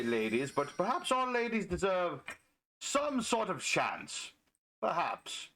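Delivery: mock-thoughtful musing with weighty pauses; sarcastic. Feigning doubt about ladies deserving a chance, sarcastic. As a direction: pretend to concede it, drawing out the pauses. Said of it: "Of course, that's sarcasm".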